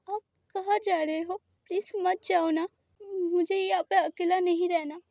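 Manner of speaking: plead, close to tears; lightly voiced scared boy. Boy begs not to be sent back, a hint of tears.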